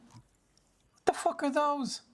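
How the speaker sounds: drawn-out shocked squeal; startled disbelief. Real, not acted. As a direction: gawk at something bizarre. Spotting strange creatures in game.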